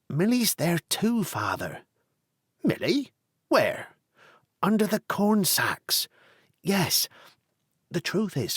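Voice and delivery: sheepish son. Acted. Tony confessing to father.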